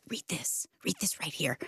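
hushed whisper so the class can't hear. Retold or imitated. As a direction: whisper it urgently across the desk. Pushing Bible to friend in class.

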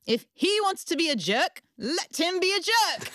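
lightly voiced British mentor; blunt mentor. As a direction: say it plainly and unbothered. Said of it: "She says".

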